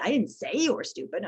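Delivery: "say" stressed, implying it was only thought. Shown as a demonstration. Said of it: "I say".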